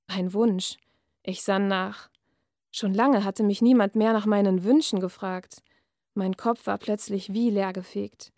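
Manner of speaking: measured reading-aloud voice; dark fairy-tale narration; story reading. A narrator's reading. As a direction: read the passage like an author at a reading. Author reads her novel aloud.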